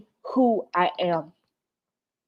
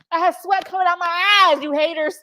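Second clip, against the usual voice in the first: higher, half-laughing tearful joke; tearful giggling tease; laughing through tears; 9 semitones higher than usual. Real, not acted. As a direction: giggle the words out while teary. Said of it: "My freaking tears is throwing me off".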